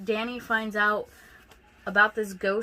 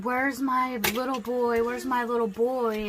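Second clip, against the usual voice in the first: half-hearted haunted wail; mock ghostly moaning; 2 semitones higher than usual. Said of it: "like, moaning".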